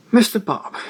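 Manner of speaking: put-on elderly editor's greeting. Crabbe greets the narrator.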